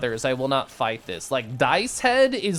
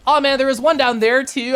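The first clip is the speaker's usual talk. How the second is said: high, loud dismayed outburst; frustrated surprise; 10 semitones higher, 7 dB louder than usual. Real, not acted. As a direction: groan it, missed the loot. Missed chest disappointment.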